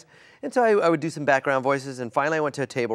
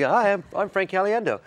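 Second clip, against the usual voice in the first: Frank Caliendo; 5 semitones higher than usual. Retold or imitated. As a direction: play him lost for voices. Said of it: "an impression of Frank Caliendo".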